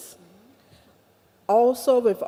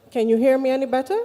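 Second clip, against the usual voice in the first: louder; 3 semitones higher, 5 dB louder, much faster than usual. Real, not acted. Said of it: "Could you p-, speak louder".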